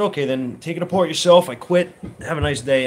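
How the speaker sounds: fed-up mechanic quitting on the spot; defiant quitting. Retold or imitated. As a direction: throw it back at him and walk. Quitting over pay dispute.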